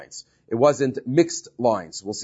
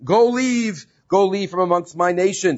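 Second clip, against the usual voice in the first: raised-pitch proclamation, mildly projected; proclaimed royal order; 4 semitones higher than usual. Acted. Pharaoh orders the people out of his nation, mildly proclaiming. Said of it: "his voice traveled across all of Egypt".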